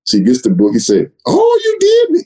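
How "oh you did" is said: much higher nasal mock surprise; John's nasal voice. Manager pretends to discover the rushing title, nasal and high. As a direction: lift it way up through the nose, feigning surprise. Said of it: "John has that nasally voice".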